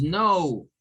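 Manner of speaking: "no" drawn out as "nohw"; "no" with a long English diphthong. Shown as a demonstration. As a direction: glide "no" into an oo, falling. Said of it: "Es no. En English, no".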